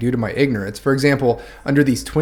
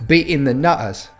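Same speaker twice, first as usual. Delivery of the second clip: Cockney accent, "beating the nutters" as "bea'in the nu'ers" with glottal stops; Cockney demo, swallow the T's in "beating" and "nutters"; Cockney dropped T's; 3 semitones higher than usual. Shown as a demonstration. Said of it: "drop the T's".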